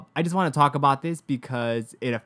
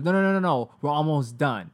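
mock the receptionist brushing her off; dismissive receptionist; 3 semitones higher, 4 dB louder than usual. Receptionist refusing patient, voiced.

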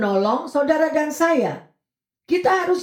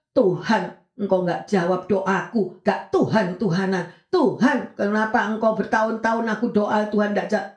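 grumbling prayer; 3 semitones lower than usual. Retold or imitated. Preacher imitating a believer grumbling at God, low sulky complaint. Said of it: "ngomelnya bilang".

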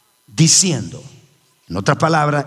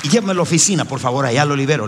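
high and fast, brushing it off; mock casual; 3 semitones higher, faster than usual. Preacher mocking a private deliverance request, breezy and high. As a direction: toss it off like a busy office manager.

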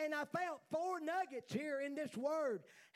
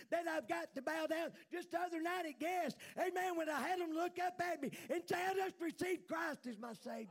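fervent raised preaching; preaching shout; 4 semitones higher than usual. Real, not acted. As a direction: call it out like a revival. Preaching climax.

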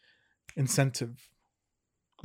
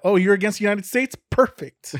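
mock delighted; 5 semitones higher, 5 dB louder than usual. Mock voice of Russia and China.

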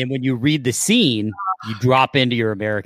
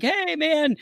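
mock British showrunner; 3 dB quieter than usual. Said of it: "the showrunner's like".

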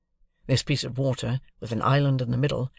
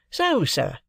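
Wemmick voice; 9 semitones higher than usual. A narrator's reading. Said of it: "said Wemmick".

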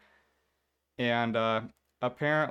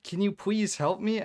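raised, pleading insistence; exasperated pleading; 7 semitones higher, 5 dB louder than usual. Retold or imitated. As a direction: push him to help, louder. Pleading with the teacher.

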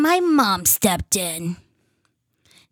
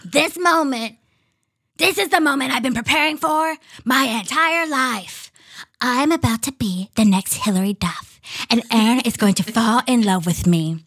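lightly voiced kid reading diary; pinched voice. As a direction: read it like an excited young girl. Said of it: "I'm gonna do my kid voice".

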